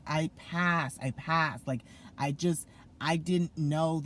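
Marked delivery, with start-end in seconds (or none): 0.1-1.0 excited repeat. Retold or imitated. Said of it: "I'm like". 1.0-1.7 excited repeat. Retold or imitated. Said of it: "I'm like".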